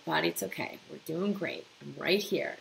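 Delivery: soft, gentle reassurance; reassuring body. Shown as a demonstration. Talking kindly to your own anxious body, soft and soothing. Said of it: "just let your body know".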